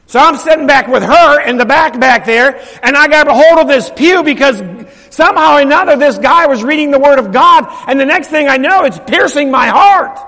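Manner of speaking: loud, driving testimony; full-force preaching. Real, not acted. Preacher telling church of his conversion, full-force preaching. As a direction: preach the story with mounting force.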